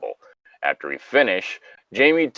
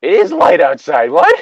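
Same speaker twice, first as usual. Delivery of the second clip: higher, louder indignant snap; indignant retort; 9 semitones higher, 7 dB louder than usual. Acted. Jamie retorting to lazy Sam through the tent, indignant. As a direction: shut down his excuse.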